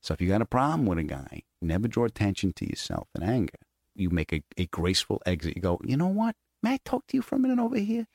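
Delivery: calm menace from a tough dad; lightly voiced stern father giving life advice. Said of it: "he's like".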